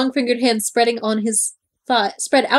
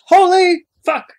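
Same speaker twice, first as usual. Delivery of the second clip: loud, higher and slow mock exclamation; capitalized shout; 7 semitones higher, 7 dB louder, slower than usual. Shown as a demonstration. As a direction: belt it out as if in capitals. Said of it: "Holy fuck is capitalized".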